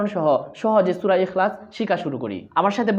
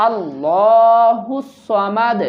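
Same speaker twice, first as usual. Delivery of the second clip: slow recitation; much slower than usual. Shown as a demonstration. Teacher modelling slow recitation for students. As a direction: recite slowly for learners. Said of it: "আমার সাথে বলুন".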